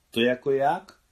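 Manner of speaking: high, loud rising question; puzzled surprise. A narrator's reading. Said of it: "podivila se Mášenka". (udivená, zvýšená otázka)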